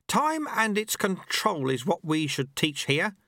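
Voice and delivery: put-on a wry old sweeper teaching his apprentice; old monk Lu Tse. A narrator's reading. Old master speaks to the dojo monks, wry.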